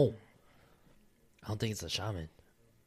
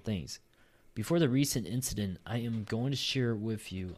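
steady reading aloud from a submission; story read-aloud. Acted. Co-host reads next listener story, steady read-aloud. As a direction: read the account out evenly, sentence by sentence.

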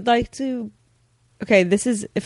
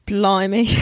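put-on half-hearted British accent. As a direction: try a tentative British accent. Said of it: "in a British accent".

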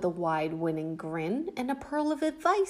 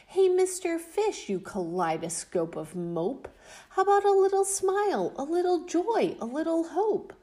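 higher, fast cheeky squid; slightly impolite squid, pitched up; 7 semitones higher than usual. Acted. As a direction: tease him in a high voice. Squid voiced, high.

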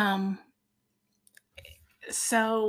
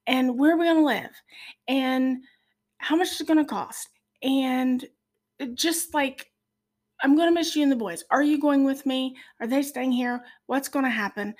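panicked worrying; 3 semitones higher than usual. Retold or imitated. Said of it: "I'm like".

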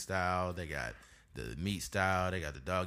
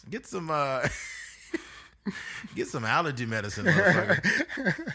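higher, louder laughing shout; laughing yell; 8 semitones higher, 4 dB louder than usual. Retold or imitated. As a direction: bust out the insult while laughing. Mock yelling at clerk, laughing.

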